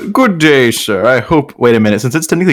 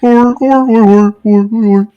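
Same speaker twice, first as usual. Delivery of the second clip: high joking; 12 semitones higher, 5 dB louder, slower than usual. Real, not acted.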